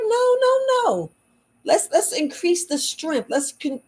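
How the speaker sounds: urging a patient to strengthen her bones, high and eager; high excited self-quote. Retold or imitated. Acting out her own urging.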